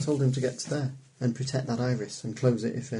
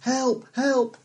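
higher, louder call of help, help; mock call for help; 13 semitones higher, 4 dB louder than usual. Shown as a demonstration. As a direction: call out help, help like a trapped person. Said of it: "or calls for help as".

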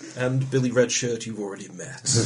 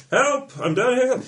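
trapped person calling; 12 semitones higher, 4 dB louder, slower than usual. Retold or imitated. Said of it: "somebody who's trapped saying".

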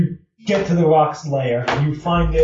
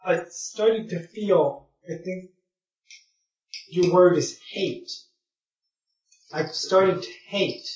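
lightly voiced creature, higher and hesitant; halting confession; 4 semitones higher than usual. Giant bird confesses new feelings to visitors, halting.

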